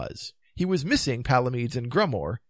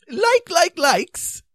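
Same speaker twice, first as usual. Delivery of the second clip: high, halting repetition; high-pitched, faltering voice; faint explanation; 10 dB louder, much slower than usual. A narrator's reading. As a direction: stammer it out high, word by word. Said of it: "explained Sir Palamedes faintly".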